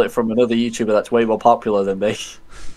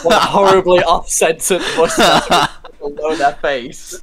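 laughing; 4 semitones higher, 3 dB louder, slower than usual. Real, not acted. Laughing at a drawing.

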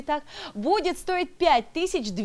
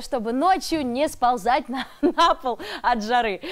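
laughing; 3 dB louder than usual. Real, not acted. Host asks a playful riddle.

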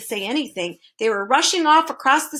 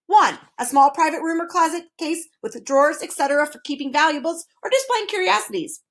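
higher-pitched dictionary recital; numbered entries recited by rote; reciting; 5 semitones higher than usual. A narrator's reading. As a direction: reel off definitions formally. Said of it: "recited the Duke".

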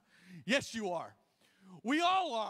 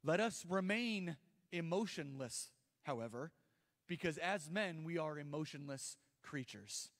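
mock stoic man; 3 semitones lower than usual. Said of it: "The men were not standing there going".

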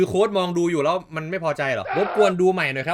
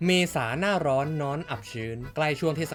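steady, rehearsed ad-read voice; sponsor ad read; 2 semitones lower than usual. Acted. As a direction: read out the sponsor spot smoothly. Reads out sponsor ad. (อ่านสปอตโฆษณา)

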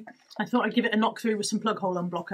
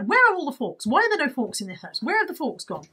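exasperated; 4 semitones higher than usual. Retold or imitated. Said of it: "is all I have been saying".

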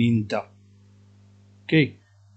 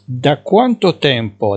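each syllable drawn out, slowly; slow dictation; 3 semitones higher, 6 dB louder, much slower than usual. Shown as a demonstration. Teacher to Moroccan students, slowly dictating Italian. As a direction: spell it out slowly for learners. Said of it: "teacher dictating".

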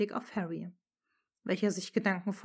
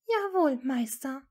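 firm; 6 semitones higher, 5 dB louder than usual. Acted. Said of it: "sagte sie dann fest".

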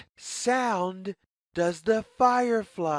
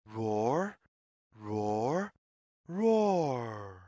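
much lower, gentle mock roars for children; mock lion roar; 7 semitones lower, 3 dB quieter, much slower than usual. A narrator's reading. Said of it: "makes the sound roar".

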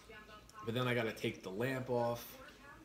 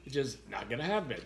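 laughing refusal; 4 semitones higher than usual. Retold or imitated. Driver laughing as he refuses to stand his ground. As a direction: laugh while refusing to risk the dog. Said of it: "I'm like".

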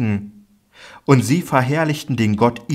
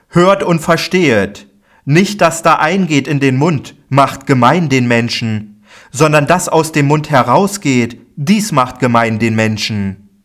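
raised, higher and louder proclaiming voice; Jesus teaching the crowd; 4 semitones higher, 5 dB louder than usual. Acted. Jesus calls to the crowds, raised and commanding. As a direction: call out the teaching to the whole crowd.

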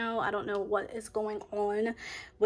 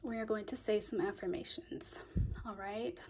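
hushed whisper to start the session; 8 dB quieter than usual. Real, not acted. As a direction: whisper gently, leaning in. Starting whispered affirmation guidance.

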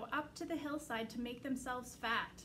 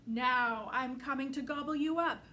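dim booming ogre; 7 dB louder than usual. Acted. Troll threat.

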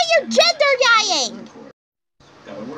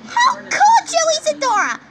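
outraged cry; 3 semitones higher than usual. Real, not acted. Vlogger accusing Isadora, high outraged cry. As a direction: hurl the question at her.

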